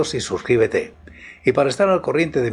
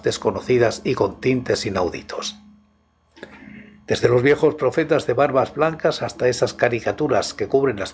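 story narration. Acted. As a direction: set a midnight horror mood. Reads a horror story aloud.

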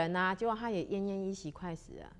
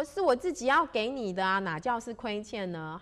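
protesting bandit; 3 semitones higher, 5 dB louder than usual. Acted. 强盗反驳.

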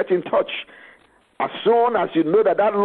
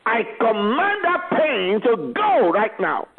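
commanding prayer; 3 semitones higher than usual. Acted. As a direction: command the sickness to leave.

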